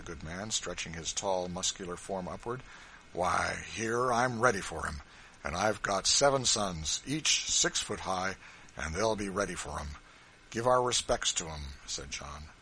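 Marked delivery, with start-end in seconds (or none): 3.1-11.7 louder, bold, daring them to come; big farmer squaring up to any pursuers; hearty Kentucky man, loud and fearless; defiant backwoods farmer. Acted. Kentucky farmer defying slave catchers.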